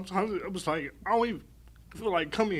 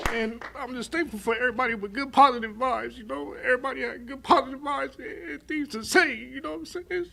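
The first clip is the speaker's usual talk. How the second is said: tearful thanks, voice pitched up; crying; 5 semitones higher than usual. Real, not acted. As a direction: speak gratefully while really crying. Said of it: "excuse me for crying".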